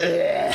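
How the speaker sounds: a short retold gag sound; brief mock retching ugh; mock gagging. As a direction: imitate him gagging, lightly. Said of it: "he's just gagging".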